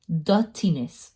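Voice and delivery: lightly put-on English accent. Nail vlogger talking about dirt underneath, playful English accent. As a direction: slip into a passing English accent. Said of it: "said that with an English accent".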